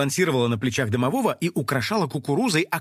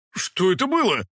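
amazed; 4 semitones higher than usual. Acted. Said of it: "изумлённо спросил он".

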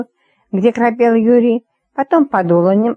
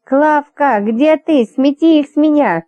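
higher panicked shout of a name; 6 semitones higher, slower than usual. A narrator's reading. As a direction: yell for her to sweep them off. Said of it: "выкрикивая".

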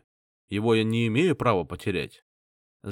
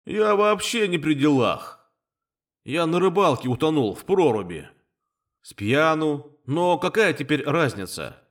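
spirit voice; 5 semitones higher than usual. A narrator's reading. Candle spirit complaining to the narrator. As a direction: play the careless drowned spirit.

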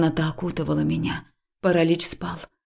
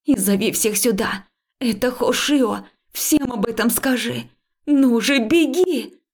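urgent shouting; 6 semitones higher than usual. Acted. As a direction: drive her to run, shouting. Urging friend to run.

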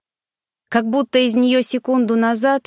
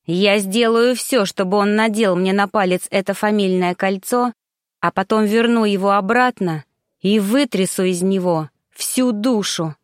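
icy voice. Acted. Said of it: "ледяным голосом".

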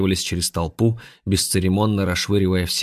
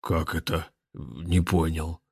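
bass drawl; 2 semitones lower, 6 dB quieter, slower than usual. Acted. Billiard ball is confused, slow bass drawl. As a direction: drag it out in a dim bass. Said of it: "басом протянул бильярдный шар".

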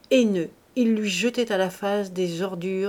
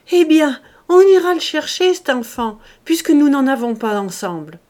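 much louder, higher, booming cheer; hearty, jovial; 6 semitones higher, 11 dB louder than usual. A narrator's reading. Farmer laughs to his wife, loud and high and jovial. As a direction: boom it out like a happy farmer.

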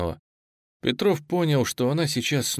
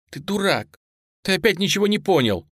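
upset outburst; 9 semitones higher than usual. Acted. Nastya yells at Sasha.

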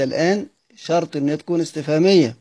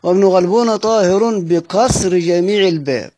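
verse recital; 3 semitones higher than usual. Shown as a demonstration. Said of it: "يعني مش بعيد".

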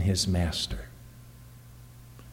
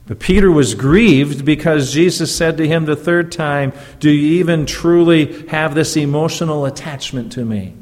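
preaching at full force; 4 semitones higher, 5 dB louder than usual. Acted. Preacher rising on Peter's grief.

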